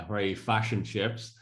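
slow Donegal fishing-town accent; Killybegs accent. Shown as a demonstration. Showing listeners his family's home, slow Killybegs accent. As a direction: draw it out like a Killybegs local. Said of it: "that was a Killy Beggs accent".

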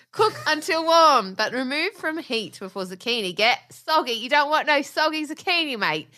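high, lilting mock British accent; bad British accent. Wife reads recipe giggling, badly faked British accent. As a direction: overdo a British TV-cook accent. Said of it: "this is the worst accent in the world".

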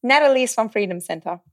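getting carried away with excitement; excited. Real, not acted. Guest telling host how she found Natalie, excited. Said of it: "Ooh, I'm getting excited".

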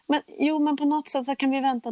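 high-pitched bargaining protest; retold pleading. Patient begs doctors to postpone the operation, pleading.

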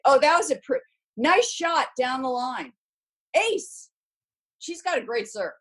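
high-pitched mock match commentary; pathetic commentator. Former player mocking her first tries at TV commentary, high pathetic commentator voice. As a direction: send up a clueless tennis commentator. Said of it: "it was pretty pathetic".

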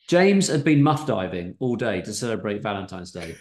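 put-on reading in a light South African accent. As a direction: narrate with a South African lilt. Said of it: "all voices South African".

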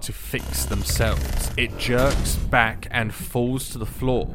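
measured storytelling voice; game master narration. A narrator's reading. Game master describing a broken machine reviving, measured narration. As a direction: set the scene for the players.

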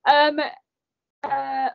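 a crying catch on the um; throat noise after crying. Real, not acted. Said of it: "my throat made a noise".

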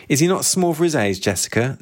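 a hint of a wheezy old witch; wheezing old woman. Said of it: "Her voice wheezed and twanged".

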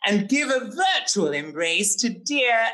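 theatrical verse reading, grand and camp; poem recital. Acted. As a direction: declaim it like a flamboyant poet. Reads his bespoke poem.

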